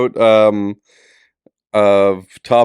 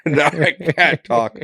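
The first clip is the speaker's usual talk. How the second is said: sore throat; 2 semitones higher, slower than usual. Real, not acted. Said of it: "That actually hurt my throat".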